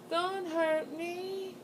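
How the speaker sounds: high, very slow, frightened little plea; retold frightened plea. Begging the ghost boy not to hurt her, high and scared. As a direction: beg softly like a scared child. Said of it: "I was crying".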